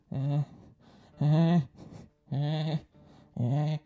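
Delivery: little strained grunting sound effects; mock awkward grunts. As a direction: voice the awkward boomerang loop with grunts. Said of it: "I like to add sound effects".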